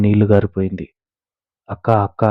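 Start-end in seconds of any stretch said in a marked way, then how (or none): 1.7-2.2 panicked. A narrator's reading. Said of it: "Gopi గాబరాగా".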